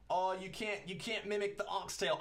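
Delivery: tentative try at Jamaican speech; attempted Jamaican accent. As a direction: quote them in a rough Jamaican accent. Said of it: "do my best to do a Jamaican accent".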